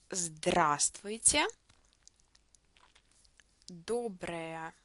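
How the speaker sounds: slow read-after-me Russian, stressed vowels drawn out; model pronunciation. Shown as a demonstration. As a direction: leave a long pause after each phrase for repeating, lengthen stressed vowels like the а in "Здравствуйте". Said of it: "pronounce the stressed vowels longer".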